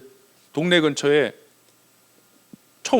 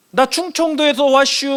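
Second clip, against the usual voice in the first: higher-pitched Chungcheong dialect; raised-pitch demo of Chungcheong speech; 6 semitones higher than usual. Shown as a demonstration. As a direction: put on a folksy Chungcheong accent. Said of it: "충청도에서 왔슈".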